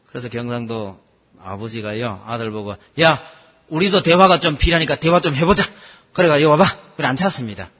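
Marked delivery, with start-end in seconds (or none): 3.0-5.6 a hint of a blunt Gyeongsang father, louder; calling his son over, mildly gruff; gruff dad. 6.4-7.0 louder, curt call; calling over. Retold or imitated. Father orders son to sit.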